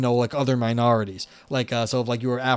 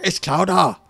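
Boston accent; 5 semitones higher, 4 dB louder than usual. Shown as a demonstration. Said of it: "that's more Boston, where they, uh, go, like, with just no R at all".

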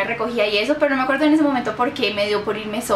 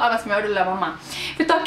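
usual speaking voice

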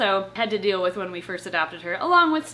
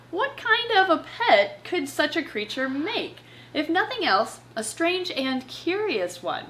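storybook reading; 3 semitones higher than usual. Acted. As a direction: read it like a tale for kids. Reading the pet book aloud.

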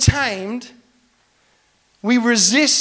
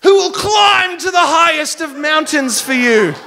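hammed-up grand declaration; 3 semitones higher, 4 dB louder than usual. Retold corny romantic speech.

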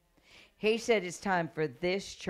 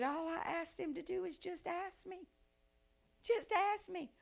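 yearning God voice; 11 semitones higher, 6 dB quieter than usual. Retold or imitated. God pleading with people.

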